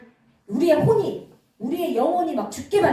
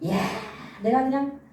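lightly acted devil crowing over a victim; gloating devil; 3 semitones higher than usual. Preacher voices the devil pleased with his fiery arrow, mildly gloating. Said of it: "마귀가 좋아가지고 막 떼춤을 추는 거예요".

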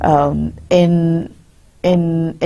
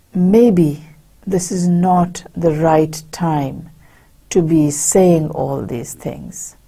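hesitant thought; slower than usual. Acted. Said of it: "the thought comes to him".

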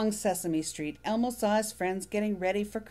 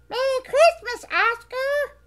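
high, bright little furry monster voice, eager; squeaky childlike monster, proud; Elmo voice; 10 dB louder than usual. Acted. Elmo greets Oscar.

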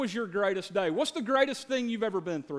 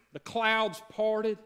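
dramatic slow; much slower than usual. Acted. Dramatic birth story build-up.

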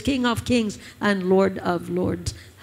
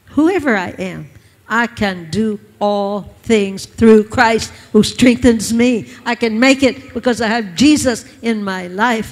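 fervent declaration; 6 dB louder than usual. Acted. Preaching declaration.

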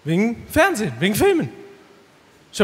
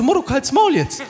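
put-on Turkish street accent; 6 semitones higher than usual. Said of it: "wie ein Türke".

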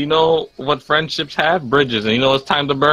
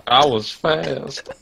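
slow, wounded mock sob; mock hurt; much slower than usual. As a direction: say it like you're faking hurt. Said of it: "Why do you sound so hurt?".

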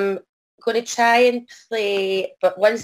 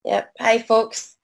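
hoarse, croaky voice from a cold; 4 semitones higher, slower than usual. Real, not acted. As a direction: speak through a croaky throat. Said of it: "excuse my croaky voice".

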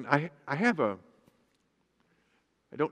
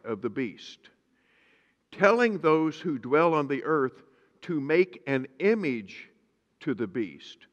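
slow, weighty Bible reading; scripture reading; slower than usual. Acted. Pastor reads Revelation to his congregation, slow and solemn. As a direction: lay out each phrase slowly, like holy writ.

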